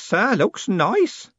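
put-on drawn-out old man's repeat; slow, lingering old postman. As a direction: stretch the second looks nice slowly. Grote repeats himself slowly.

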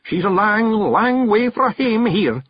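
a lad confessing his fear for her; young Billy, earnest and scared. A narrator's reading. Billy tells Rob his fear for the hag, frightened high voice.

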